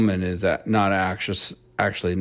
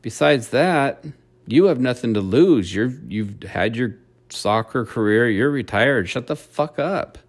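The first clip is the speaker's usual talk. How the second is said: quoting the swimmer; 3 semitones higher, 3 dB louder than usual. Retold or imitated. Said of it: "And she's like".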